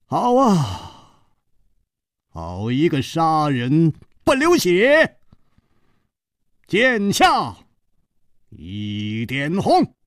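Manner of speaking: high, drawn-out cry of admiration; long exclamation to the sky. A narrator's reading. Onlooker acclaiming the bloodless killing, long exclamation. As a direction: proclaim it skyward, stretching the last words. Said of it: "张啸林仰天长道".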